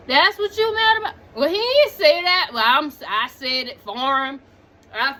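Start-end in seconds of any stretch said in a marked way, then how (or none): 0.1-1.1 higher and louder, fast, MAD hit hardest; louder repeat. Retold or imitated. Tied-up man repeating at his girlfriend, louder with MAD stressed. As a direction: throw it back at her, louder. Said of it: "He was just like".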